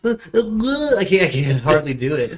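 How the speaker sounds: congested allergy voice; blocked nose. Real, not acted. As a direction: speak with a stuffed-up nose. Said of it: "I can't breathe through my nose".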